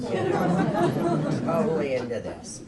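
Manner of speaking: squeaky high mock enthusiasm with a laugh; laughing at her naive zeal; mock eager. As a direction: sing it out, overly keen. Mocking own eagerness.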